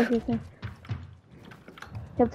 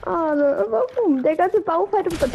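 drawn-out whine; 4 semitones higher, slower than usual. Real, not acted. Beklagt verlorenen Baufight.

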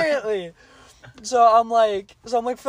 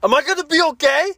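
higher, pleading mock voice for the worried customer; imitating the woman; 7 semitones higher than usual. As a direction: retell her nervous question in a put-on higher voice. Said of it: "And she's like, she's like".

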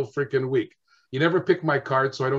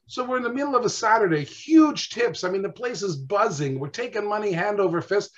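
excited storytelling; 6 semitones higher than usual. Real, not acted. Guest recalls a buzzing busy Saturday.

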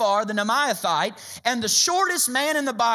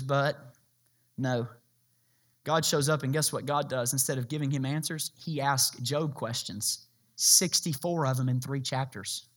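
hushed reveal; 10 semitones lower, 6 dB quieter than usual. Acted. Dramatic reveal of God's questions.

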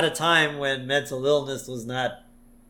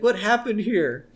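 higher-pitched imitation, questioning; lightly voiced wife walking in on a mess; Marge; 7 semitones higher than usual. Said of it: "And Marge is like".

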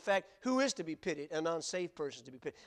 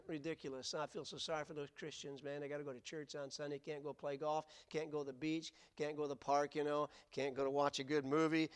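mock scoffing worldly voice; 2 semitones lower than usual. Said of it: "the world looks at a Christian usually and says".

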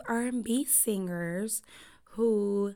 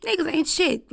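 exasperated verdict; 7 semitones higher, 5 dB louder than usual. Retold or imitated. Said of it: "I was like".

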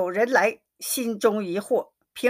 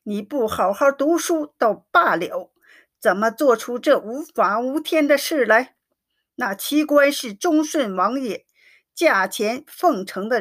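mild angry scolding, pitch rising at the start; a read-aloud father's mock fury, understated; lightly voiced furious father; angry roar. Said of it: "怒喝".

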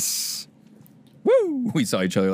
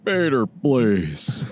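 Bader impression; much slower than usual. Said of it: "Do some, uh, Bader".

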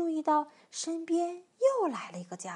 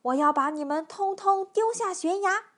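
loud, higher menacing threat; storybook bully's raised voice; giant's roar; 5 semitones higher, 5 dB louder than usual. A narrator's reading. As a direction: threaten them as a blustering giant. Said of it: "巨人咆哮着".

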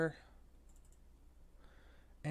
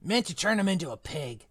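a hint of Hagrid, rueful; lightly voiced gamekeeper regretting his temper. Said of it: "wrong voice for Hagrid".

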